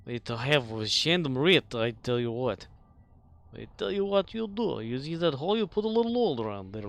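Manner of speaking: lightly voiced rustic old-timer; hillbilly voice. Comic hillbilly advice bit.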